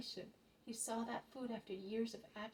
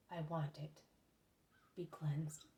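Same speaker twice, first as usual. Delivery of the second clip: a touch lower, calm command full of love; low, loving and authoritative; 4 semitones lower, slower than usual. Acted. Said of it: "in a low voice, which is full of love and yet most authoritative".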